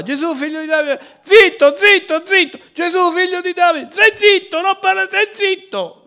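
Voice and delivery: high, loud shouted hush; mock shouting crowd. Preacher acting out the crowd silencing the blind man, shouting. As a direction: yell them down like an angry crowd. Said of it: "Cioè lui gridava".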